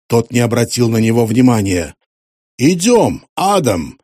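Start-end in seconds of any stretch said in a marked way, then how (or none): 2.6-4.0 higher, louder curt order; sharp command. Acted. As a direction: snap the order out. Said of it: "резко сказал он". (резкий приказ)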